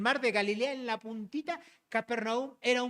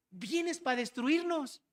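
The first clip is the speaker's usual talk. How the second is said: lightly voiced demon, higher and slow; demon's words; 4 semitones higher, slower than usual. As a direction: quote the demon slowly, pitch lifted. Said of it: "este demonio sí lo dijo".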